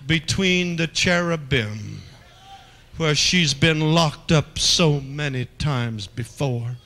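slow, drawn-out preaching; slow sermon cadence. Acted. Preacher painting mercy behind the veil, slowly. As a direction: stretch each phrase out.

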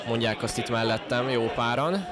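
ordinary talk

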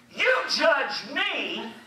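slow, firm mock rebuke; angry rebuke. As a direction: lay down the words with force. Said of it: "I become angry".

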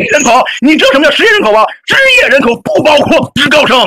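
arguing through sobs; crying while arguing. Real, not acted. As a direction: push the point out through real tears. Heated argument, crying while arguing.

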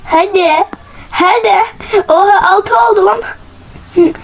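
high urging bursting into disbelief; excited amazement. Real, not acted. Player amazed at reaching six, excited and high. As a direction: urge it on, then marvel, pitched high.

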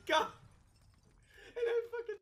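loud high yell; angry shout. Real, not acted. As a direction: explode in frustration. Raging at the game.

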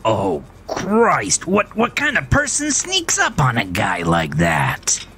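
high, flustered indignant voice; startled grumpy man. A narrator's reading. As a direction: caught off guard and outraged. Startled Melvin complains.

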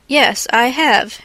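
slow, firm declaration; emphatic, measured answer; declaring. A narrator's reading. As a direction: declare it slowly and deliberately. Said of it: "Monsieur Lachenel declared".

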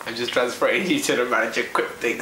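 low voice mimicking the clerk; imitating the clerk. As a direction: copy the clerk's slangy line. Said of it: "this is how you know you've called J D".

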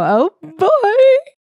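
hammed-up uh-oh at the window; mock ominous oh boy. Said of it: "and go".

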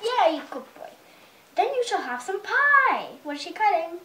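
put-on lively storybook reading to a toddler; mother reading a picture book to her little son; reading to children. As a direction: read it out like bedtime story time.

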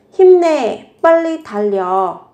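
high, loud cheer to a runner; cheering encouragement. Shown as a demonstration. Teacher cheering a runner on, loud and high. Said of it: "Một câu khích lệ".

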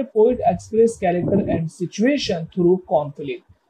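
slow, deliberate reading of an English definition. Shown as a demonstration. Teacher reading the definition to the class, slow and deliberate. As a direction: read it out slowly so students follow. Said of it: "teacher reads definition to class".

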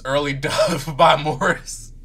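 slow title read broken by a laugh; laughing through it. Shown as a demonstration. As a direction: say the title, giggling on it.

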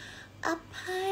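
slow, drawn-out Korean "아파"; Korean word. Retold or imitated. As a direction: say อภัย slowly like a K-drama line. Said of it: "พูดกับพี่พยาบาลว่า". (พูดคำว่า อภัย ช้าๆ แบบเกาหลี)

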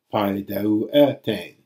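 pai deu etain, slowly, stressing the e before tain; accent pulled forward. Shown as a demonstration. Teacher giving another example, pai deu etain slowly stressed second from last. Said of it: "so too in all of the rest".

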